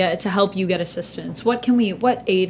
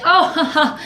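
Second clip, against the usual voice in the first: laughing. Acted. Bree flatters the host with a fake laugh. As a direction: fake laugh then sugary praise. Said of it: "Bree, like, laughs and is like".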